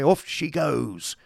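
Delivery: slow, drawn-out, high call off she goes; a hearty coachman's departure call; coachman setting off. A narrator's reading. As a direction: sing out Off as the coach starts.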